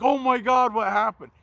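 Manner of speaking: lightly voiced shocked customer; mock shocked gasp. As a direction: imitate her alarm. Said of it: "She's like".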